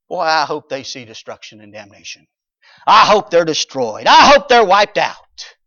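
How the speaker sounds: building to a loud vengeful cry; spiteful wish. Retold or imitated. Jonah's imagined spiteful wish.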